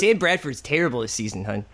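Philadelphia sports-fan accent; Philly accent. Shown as a demonstration. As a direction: grumble like a Philly local. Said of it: "what is the Philly accent?".

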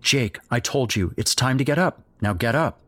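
insist, firmer this time; sterner mother. Acted. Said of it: "sterner now".

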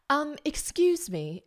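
high, slow, prim "excuse me"; drawn-out, high-pitched imitation of a complainer; mock-polite interruption. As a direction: imitate a stranger politely cutting in. Retold complainer interrupting the two friends.

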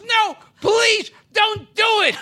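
put-on frantic pleading young woman; pleading model. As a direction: beg him not to call. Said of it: "And she goes".

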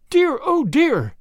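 Grandma panics over her lost ticket, slow high wail; wild exclamation. Acted. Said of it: "exclaimed Grandma wildly".

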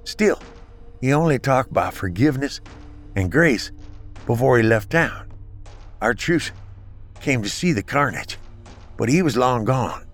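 slurred from a blow to the face; slurring. Acted. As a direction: slur the words, hurt and winded. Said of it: "slurring his words from a hit on the face".

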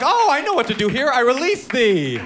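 high, grand medieval proclamation; imitating a chivalrous release; mock knightly. Mock archaic knightly speech.

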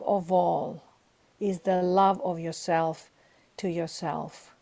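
host asked her lesson, she answers softly and sincerely; soft sincere confession. Real, not acted. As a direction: confide it gently, as a hard-won truth. Sharing her deepest life lesson.

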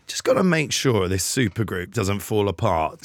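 a hint of a worried band manager muttering to himself; imitating Brian the manager. Manager in the background keeping the supergroup together, lightly voiced. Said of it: "Brian just on the background being like".

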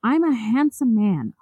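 smug boasting voice, rising high at the end; cocky boast. Retold or imitated. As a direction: play him as a vain ladies' man. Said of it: "Nichols told him".

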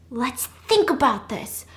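slow, stretched-out repeat; acted slow, measured reasoning; deliberate calming. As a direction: draw out each word to take control. Repeats it slowly to take control.

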